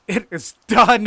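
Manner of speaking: high, slow, loud proclamation; drawn-out, full-voiced shout; exultant cry. A narrator's reading. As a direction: cry out in mad triumph. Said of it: "I entered crying".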